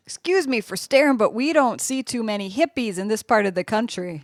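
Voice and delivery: lightly voiced southern barfly; southern accent. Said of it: "get out that southern accent".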